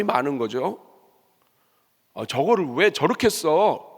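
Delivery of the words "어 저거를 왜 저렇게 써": slow, mildly outraged questioning; mock indignation. Preacher imitating critics who gave nothing, mild mock indignation. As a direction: grumble at someone else's waste. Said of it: "막 화를 내".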